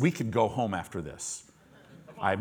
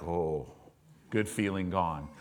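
deflated; 6 semitones lower, 6 dB quieter than usual. Retold or imitated. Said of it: "Job's instantly probably like".

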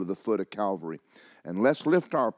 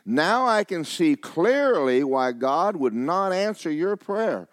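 acted reproach; 7 semitones higher than usual. A narrator's reading. Pastor explains why God won't answer her prayer, acted reproach.

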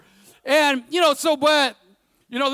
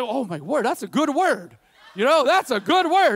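laughing delight. Retold or imitated. Retold bathroom inspiration.

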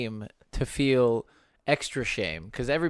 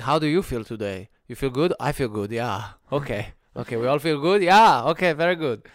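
a weak mock German accent, louder at the end; bad German accent; 5 dB louder than usual. Mocking Germans with a clumsy German accent. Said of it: "That's the worst German accent ever".

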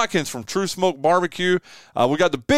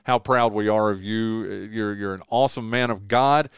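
sincere; 4 semitones lower than usual. Real, not acted. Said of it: "I mean this sincerely".

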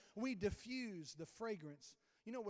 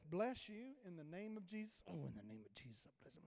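undercover prayer; 8 dB quieter than usual. Shown as a demonstration. Secretly praying for someone just greeted, hushed. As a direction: pray under your breath so they don't notice. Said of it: "pray for people without them even knowing".

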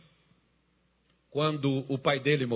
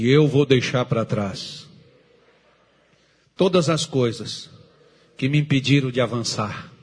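declaration for the congregation to repeat; 3 semitones lower than usual. Shown as a demonstration. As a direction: lead them in a solemn vow. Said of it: "diga assim".

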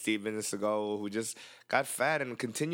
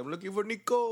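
imitating movie hero; 10 semitones higher than usual. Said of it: "He's like".

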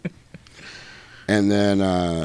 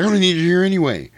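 Leonardo quote; 10 semitones higher, faster than usual. Retold or imitated. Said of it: "Leonardo's like".

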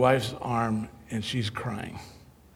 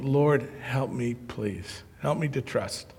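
slow, much softer plea to heaven; desperate prayer; 2 semitones lower, 7 dB quieter, slower than usual. Retold or imitated. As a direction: barely breathe out a humble plea.

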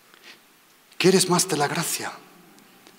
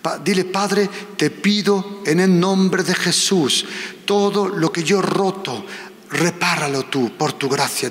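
leading prayer. Acted. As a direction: pray aloud so they echo each word. Leads congregation in prayer.

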